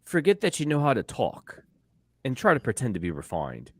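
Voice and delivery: attempted refined British accent; amateur go at British English. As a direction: put on a shaky-quality British accent, posing as refined. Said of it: "prepared a British accent".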